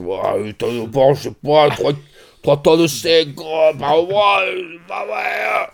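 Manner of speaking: hammed-up wonder at the figures; mock amazement. Impressed businessmen at a seminar.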